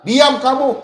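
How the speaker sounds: loud, high mock bark; retold snapping. Host imitating the man who cut him off, snapping loudly. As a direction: snap at the caller to shut up. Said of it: "saya dibentak".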